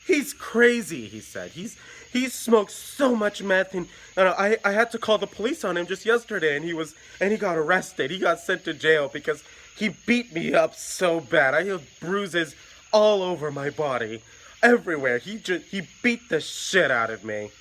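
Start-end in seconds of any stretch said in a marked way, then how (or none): 0.1-1.1 high, slow, pleading wail; upset boyfriend, pitched high and anxious; frantic boyfriend. Retold or imitated. 1.5-17.5 put-on upset boyfriend, pitched high and anxious; frantic boyfriend. Frantic beaten boyfriend pleading.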